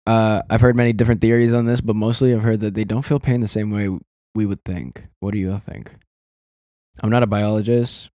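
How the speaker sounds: understated read-out of an online answer; reading aloud. Real, not acted. Reading a Reddit answer on fish pain, reading aloud. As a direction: read it off the screen, evenly and plainly.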